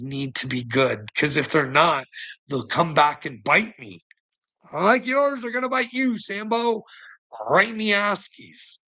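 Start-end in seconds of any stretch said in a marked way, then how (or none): 4.7-8.8 pitched much higher, jeering; sing-song it like a taunt from above; high mocking taunt. Real, not acted. Taunting a critic.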